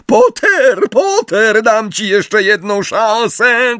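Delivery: high, urgent yell; high-pitched villainous cry; shrieked. A narrator's reading. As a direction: call out sharply to an enemy. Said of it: "krzyknęła Bellatrix".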